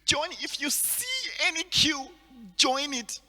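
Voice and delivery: insistent, rising to a loud call; mock grandma urging him to join; grandmother's urging. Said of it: "So my grandmother was like".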